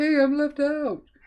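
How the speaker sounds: put-on giraffe voice. Voicing the photobombing giraffe in the picture, giraffe voice. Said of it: "just your giraffe voice".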